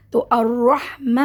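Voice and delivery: الرحمہ slowly drawn, ending in a breathy ہ; pausal recitation. Shown as a demonstration. Teacher showing the pause on الرحمہ. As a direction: stop on الرحمہ and let the ہ breathe out. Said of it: "ہوا آپ کی باہر آنی چاہیے".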